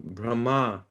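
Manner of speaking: Brahma, softly said with emphasis on -ma; stress on second syllable. Shown as a demonstration. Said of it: "the emphasis is on the second syllable".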